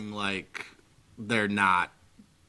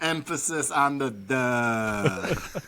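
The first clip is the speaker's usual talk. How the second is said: put-on Chicago accent; 2 semitones higher, much slower than usual. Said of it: "So that's how they say it in Chicago".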